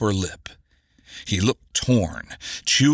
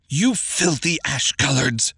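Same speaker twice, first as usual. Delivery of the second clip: higher-pitched furious shriek; 5 semitones higher than usual. Acted. Garcia shrieks insults at the half-orcs, enraged. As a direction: spit the insult in a rage. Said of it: "Garcia shrieked".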